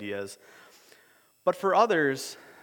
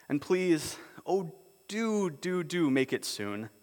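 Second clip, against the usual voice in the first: put-on despairing children. Lucy begging Aslan to let them return, lightly pleading. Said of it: "in despairing voices".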